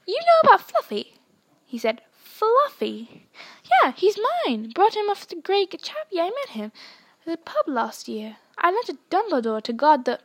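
a startled giant blurting out secrets; big gruff Hagrid. Acted. Reads Hagrid's lines.

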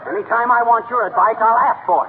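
slap him down, stay out of my business; angry retort. Acted. McGee snapping at meddling Gildersleeve.

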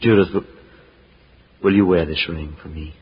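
shy tender proposal. Acted.

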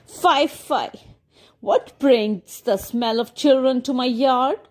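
put-on a light cackling old witch. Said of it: "she cackled".

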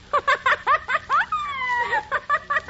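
high bubbly giggle; giggling. Acted. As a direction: burst into a giggle. Nurse giggles at joke.

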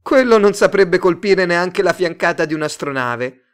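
high, loud mocking yell; shrieked jeer. A narrator's reading. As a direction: shriek the insult across the room. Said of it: "Un'altra strillò".

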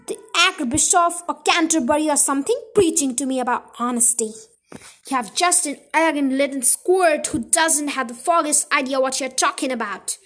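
loud, fast tirade at the daughter; angry rant. Acted. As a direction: keep yelling, full of contempt. Father still yelling at daughter.

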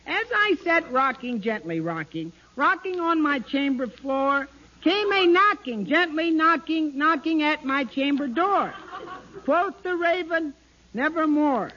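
hammed-up dramatic poetry reading; poem recitation. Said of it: "this is called, uh, The Raven".

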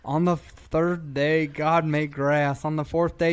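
slow, solemn mock sermon; hammed-up Bible reading; preacher voice. Mock church sermon quote.

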